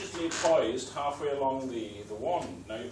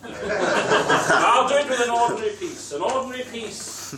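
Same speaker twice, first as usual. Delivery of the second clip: laughing; 5 semitones higher, 4 dB louder than usual. Real, not acted. Caught out with the wrong rope.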